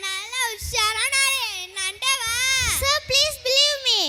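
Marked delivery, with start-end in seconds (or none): 2.8-4.0 drawn-out, insistent plea; pleading. Acted. Robbed traveller begs a stranger for his phone, pleading. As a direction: beg to be believed. Begging a refusing stranger for help.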